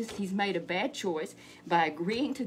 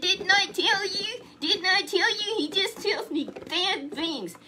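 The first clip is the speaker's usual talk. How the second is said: high, loud, slow furious cry; furious king; 10 semitones higher, 5 dB louder than usual. Acted. Ahab furious at Micaiah's prophecy, high and loud. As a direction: rant it in a high outraged voice. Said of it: "he got so mad".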